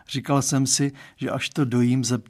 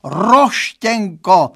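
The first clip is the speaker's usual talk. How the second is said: 1 lamenting, more drawn out; 7 semitones higher, 9 dB louder, much slower than usual. Acted. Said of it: "zanaříkal".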